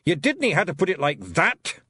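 mild mock snap in Scots; a touch of irritation, wee pixie; snapped. A narrator's reading. Rob snapping at Daft Willie, mildly irritated Scots voice. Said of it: "he snapped".

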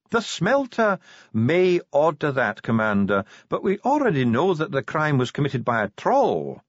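high-pitched, assured dwarf official; composed dwarf spokesman. Acted. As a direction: state it as settled fact. Dwarf answers Vimes.

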